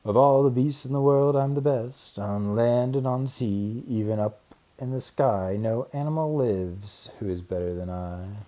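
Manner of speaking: lightly voiced rabbit, chest puffed out; a hint of a cocky little rabbit; boastful rabbit. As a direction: brag like the king of the hill. Rabbit bragging.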